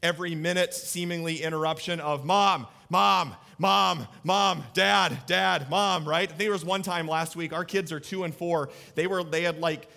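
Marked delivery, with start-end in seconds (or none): 2.2-6.1 put-on louder nagging kid calls; repeated mock child calling. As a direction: call out like a whiny toddler. Kids constantly calling parents.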